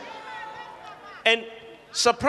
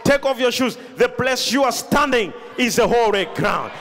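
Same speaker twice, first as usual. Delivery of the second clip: a stern divine order; God's command. Retold or imitated. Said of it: "He says".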